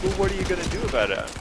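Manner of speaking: quick, high mock demand; annoyed customer. Retelling an upset delivery customer's complaint, annoyed and demanding. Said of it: "They cussed me out".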